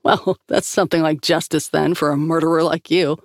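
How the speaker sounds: a laugh breaking into the words; scornful laugh. Acted. Grace mocking Antopov with a laugh. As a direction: laugh at him as you speak. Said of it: "Grace laughed in his face".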